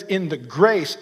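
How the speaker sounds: "grace" drawn out slowly for emphasis; stress on GRACE. Shown as a demonstration. Preacher explaining the verse to listeners, stress on "grace". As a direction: lean on the word "grace", taking it slow. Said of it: "emphasis on the word grace".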